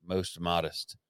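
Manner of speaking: grand Shakespearean ad read; hammy stage actor. Acted. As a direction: ham it up like an old stage actor. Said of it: "Your Chat G P T is funny".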